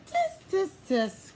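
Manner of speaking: high, teasing tut-tut; mock him like cheeky monkeys; playful monkey tutting; mocking tsk.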